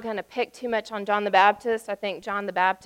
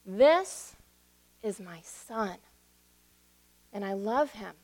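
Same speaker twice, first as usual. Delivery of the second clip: voice of God; 2 semitones lower than usual. Retold or imitated. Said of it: "And God said".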